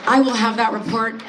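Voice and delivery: polite office voice, lightly put on; work voice. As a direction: mimic chirpy office politeness. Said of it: "that tone that we have when we're at work".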